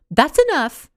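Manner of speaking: put-on stern older woman stepping in; firm command. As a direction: cut the quarrel off firmly. Gertrude intervenes firmly.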